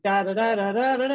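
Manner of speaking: light mock siren sounds, rising at the end; imitated fire engine. Recalling homecoming fire engine going by, light mock siren. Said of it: "the fire engine going by, going".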